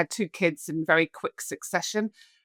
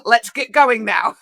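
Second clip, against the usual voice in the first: gung-ho drinker; 3 semitones higher, 6 dB louder than usual. Retold or imitated. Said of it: "I was like".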